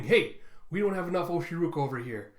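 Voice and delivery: mild acted shout; Queen shouting. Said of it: "You have Queen shouting".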